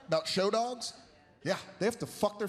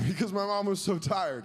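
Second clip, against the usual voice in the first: ordinary talk, nothing marked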